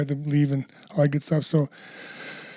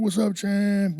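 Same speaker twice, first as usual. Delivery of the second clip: higher-pitched call from a fan; retold fan greeting; 5 semitones higher, much slower than usual. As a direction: lightly imitate a fan hailing the champ. Fans calling out to him.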